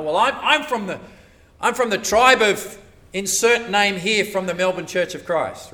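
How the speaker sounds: a hint of a smug church member; mock pride. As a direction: say it like proud belonging. Voicing a proud church member.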